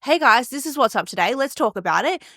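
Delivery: lively, believing every word; upbeat, engaged intro. Shown as a demonstration. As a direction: greet them like you mean it. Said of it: "But when I show up and I'm just like".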